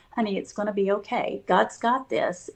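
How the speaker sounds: retold gentle comforting of a husband; quiet, quick reassurance to a loved one; reassuring. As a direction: softly soothe him, keeping it together. Wife retells reassuring her sick husband.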